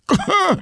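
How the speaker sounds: short high-pitched gagging noise; choking gasp. Retold or imitated. Showing how the fish choke out of water, choking gasp. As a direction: imitate a fish choking for air. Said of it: "I mean, they're choking".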